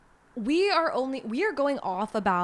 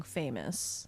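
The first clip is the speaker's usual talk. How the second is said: whispered; 10 semitones lower, 11 dB quieter than usual. Real, not acted. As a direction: whisper the last word. Trails to whisper.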